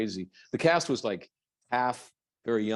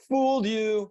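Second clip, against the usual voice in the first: teasing gotcha; 13 semitones higher, slower than usual. Pretend. Teasing fan after fake claim.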